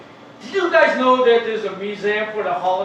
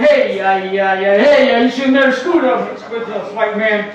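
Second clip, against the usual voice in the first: louder, taunting chief voice; gloating casino chief; 3 dB louder than usual. Retold or imitated. Casino chief mocking the gambler who lost, loud gloating. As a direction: crow over the beaten white man. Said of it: "Indian chief in the casino office going".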